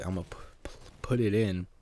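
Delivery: stammered secretive whisper. Retold or imitated. Boy slipping a love letter in the locker vent, whispered. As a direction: breathe it like you're sneaking.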